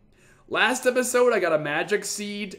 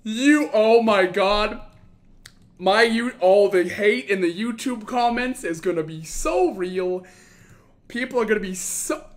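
panting between words after shouting; gasping, breathless talk; out of breath. Real, not acted. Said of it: "am very out of breath".

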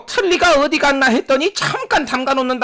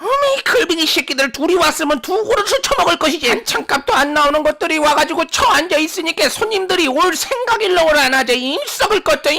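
foul-mouthed grandma. Acted. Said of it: "할머니 욕은 언제 들어도 맛깔나요".

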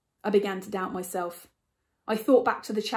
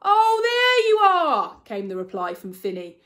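matter-of-fact; 11 semitones higher, 8 dB louder than usual. Acted. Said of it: "in his usual matter-of-fact tone".

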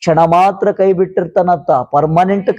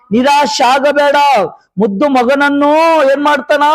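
raised, insistent sermon voice; fervent preaching; 6 semitones higher than usual. Real, not acted. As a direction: exhort the congregation in short, driving phrases.

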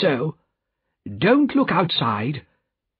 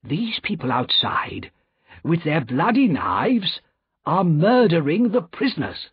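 urgent plea; 8 semitones higher than usual. Acted. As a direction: build to a high, desperate urgency. Lorry urges doctor to act.

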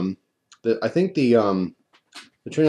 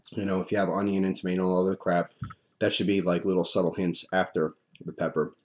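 talking with a mouth full of spit; drooling; 4 dB quieter than usual. Real, not acted. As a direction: speak through heavy drool. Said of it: "Excuse me, I'm drooling like crazy".

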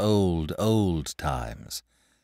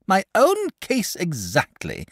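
slow, higher dragon voice; eager dragon; 12 semitones higher, slower than usual. Acted. Dragon relates to the boy, slow and lifted. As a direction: savour the agreement.

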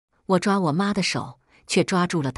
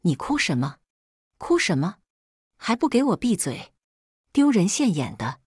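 mother roaring. Acted. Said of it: "我妈大吼".

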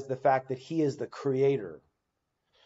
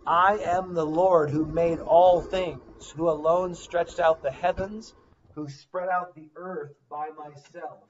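scripture reading; 4 semitones higher, 4 dB louder than usual. Acted. Reads Isaiah aloud.

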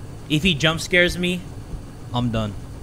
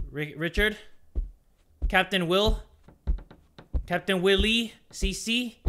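timid calling; 6 dB quieter than usual. Real, not acted. Timidly calling game character in dark.

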